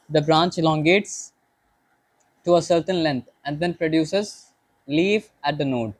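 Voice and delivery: each word read out slowly and deliberately; slow textbook reading. Shown as a demonstration. Teacher reading the book aloud to the class, slow dictation.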